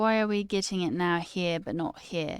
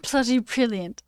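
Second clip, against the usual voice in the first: British accent attempt; 3 semitones higher, 4 dB louder than usual. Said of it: "I'm trying to do British".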